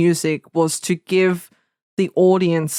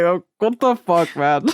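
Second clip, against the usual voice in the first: laughing disbelief. Retold or imitated. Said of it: "I was like".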